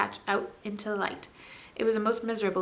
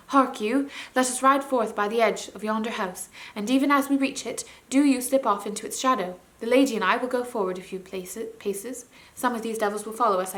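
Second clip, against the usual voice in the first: commanding prince. Acted. Prince giving Puddleglum his ambush orders, firm and commanding. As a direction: give the orders like a young knight.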